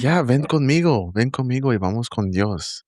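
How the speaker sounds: put-on high-pitched toddler's eager invitation; lightly voiced small child beckoning; imitated little girl. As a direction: coax them along in a high little voice. Three-year-old niece inviting them along.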